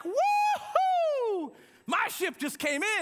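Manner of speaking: high, loud woohoo of celebration; hammed-up jubilant cheer, pitched high; elated whoop. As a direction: whoop it up like you just struck it rich. Acting out a windfall celebration.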